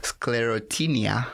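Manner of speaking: Sclerotinia split syllable by syllable; staccato. Shown as a demonstration. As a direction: say Sclerotinia one syllable at a time. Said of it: "give me syllable by syllable".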